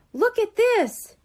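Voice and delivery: high, loud and slow exclamation; excited exclaim. A narrator's reading. Shelley shows the girls the red envelope, loud and high. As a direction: burst out with a discovery. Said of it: "Shelley exclaimed".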